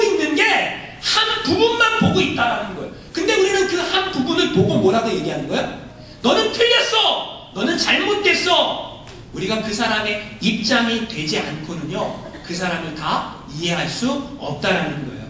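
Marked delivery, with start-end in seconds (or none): 6.2-9.0 jab the finger, half laughing; mock accusation. Mock judging of others.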